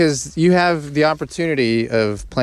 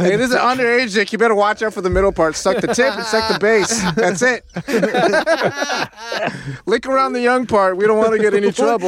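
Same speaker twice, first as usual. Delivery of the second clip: higher, hammed-up coaching; mock instructor voice; 6 semitones higher than usual.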